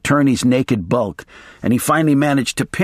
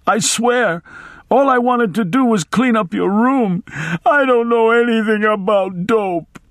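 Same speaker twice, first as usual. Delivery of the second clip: blubbering maid; 10 semitones higher than usual. A narrator's reading. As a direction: blubber it out high and scared. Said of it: "trying to speak but only blubbering".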